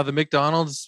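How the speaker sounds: "McDonald's" slowed, with a full "Mick" at the start; "McDonald's" with the "Mick" oddly distinct; odd pronunciation. Real, not acted. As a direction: say "McDonald's" slowly as "Mick-Donald's". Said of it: "Why do I keep saying it like that?".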